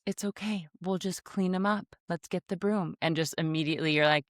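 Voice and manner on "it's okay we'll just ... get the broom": put-on child voice. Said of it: "Emerson goes".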